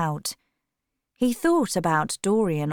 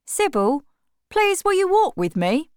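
much higher, coaxing request; pleading brother; 11 semitones higher, 4 dB louder than usual. A narrator's reading. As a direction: ask your sister gently but urgently. Brother asks sister.

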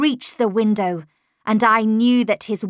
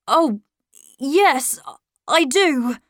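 put-on higher, eager boyish voice; young boy Miles; 5 semitones higher, 5 dB louder, slower than usual. Little Miles eagerly answering his governess, higher boyish voice. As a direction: lift the voice into a hopeful little boy.

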